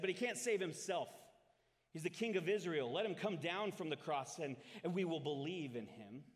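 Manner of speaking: a touch of mockery, projected loudly; mocking. A narrator's reading. Priests and elders mock the King of Israel, loud taunting. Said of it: "and the elders mocked him".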